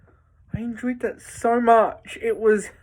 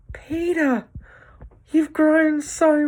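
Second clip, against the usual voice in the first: happy fond greeting; 6 semitones higher, slower than usual. Retold or imitated. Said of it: "and he's so happy".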